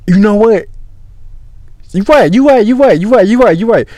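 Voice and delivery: high-pitched, repeated agreement; insistent high-voiced concession; imitated girlfriend conceding. Imitating his girl conceding the point.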